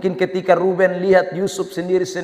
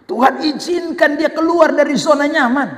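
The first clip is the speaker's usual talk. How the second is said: raised, higher-pitched declaration; emphatic; 7 semitones higher than usual. Real, not acted. Preacher repeats God's permission to congregation, emphatic. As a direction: lift the voice to drive it home.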